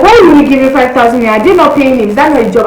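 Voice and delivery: loud, fast, indignant questions; indignant mom. Retold or imitated. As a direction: mom refusing to pay. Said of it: "My mom was like".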